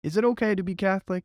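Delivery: put-on high New Jersey accent question. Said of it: "Hit him in a New Jersey accent".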